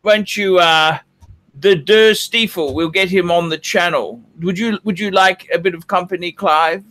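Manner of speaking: struggling mock upper-class British accent; put-on British accent. Host labouring to hold the requested British accent. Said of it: "This accent thing is proving harder".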